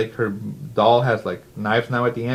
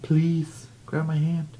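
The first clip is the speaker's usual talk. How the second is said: raised, hammed-up cry for help; mock plea for help; 7 semitones higher than usual. Brandon falling, begging Kendall for help, mock panic. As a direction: beg for a hand, lightly acted. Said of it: "He's like".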